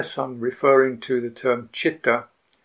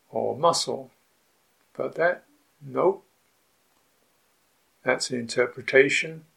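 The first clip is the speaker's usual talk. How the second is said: measured meditation prompts, spaced by pauses; guided meditation. Real, not acted. Teacher prompting sitters to examine bodily feeling, guided meditation. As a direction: offer each question as a contemplative prompt and let it rest.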